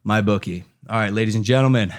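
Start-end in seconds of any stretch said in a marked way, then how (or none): 0.1-0.6 slogan delivered in separate beats; podcast ad read. Acted. Closes the sponsor ad.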